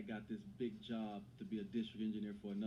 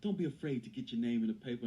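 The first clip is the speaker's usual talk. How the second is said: loud rallying call; screamed hype-up; 6 dB louder than usual. Retold or imitated. Player firing up the team for the director, loud screamed challenge. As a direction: push it out loud like a locker-room pep shout. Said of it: "I screamed real loud".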